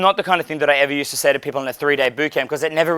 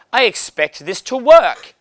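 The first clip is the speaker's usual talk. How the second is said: slowly, stiff and formal, pitched higher; stiff formal suitor; 6 semitones higher, 3 dB louder, slower than usual. Pretend. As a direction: stand up like an arranged-marriage suitor. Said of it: "You stand up like".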